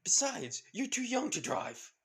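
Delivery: loud, high irritated snap that settles a little; annoyed loud retort; snapping back. Acted. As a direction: snap at the kid while driving under fire. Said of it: "With Lara saying".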